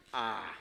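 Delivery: "A" stretched out long and open. Shown as a demonstration. Preacher correcting the short vowel, long drawn-out A. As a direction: hold the vowel A, not dry. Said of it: "suena como una A larga".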